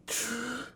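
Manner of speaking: slow heavy sigh; deep breath out. Shown as a demonstration. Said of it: "just deep breaths".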